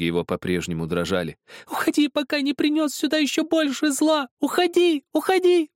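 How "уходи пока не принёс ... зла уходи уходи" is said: high, loud tearful scream; a crying child refusing to listen; screaming through tears. A narrator's reading. Zakhar screams through tears at Helmut, high and loud. Boy driving him away.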